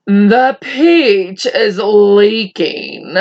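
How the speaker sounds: slow, drawn-out alarm; shouted. Acted. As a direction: call out that the peach is leaking. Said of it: "shouted the old green grasshopper".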